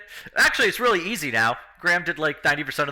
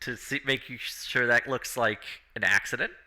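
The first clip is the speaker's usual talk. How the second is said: whisper; 4 semitones lower, 5 dB quieter than usual. Real, not acted. Whispered aside during deception.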